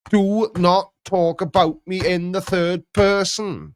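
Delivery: slow, firm and stern; stern command. Retold or imitated. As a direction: lay down the rule slowly. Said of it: "The number of times I've said".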